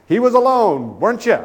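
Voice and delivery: high, loud sly accusation; teasing insinuation. Retold or imitated. Guest teasing the screaming man in front of the clerk, high sly jab. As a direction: needle him about his roommate.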